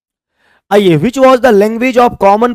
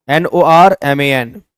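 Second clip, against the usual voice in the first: spelled out; 5 semitones lower, slower than usual. Shown as a demonstration. Teacher spells the word out.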